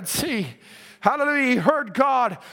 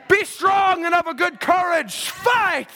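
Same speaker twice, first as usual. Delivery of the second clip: rousing charge; 3 semitones higher, slower than usual. Acted. Preacher voices God's charge to Joshua.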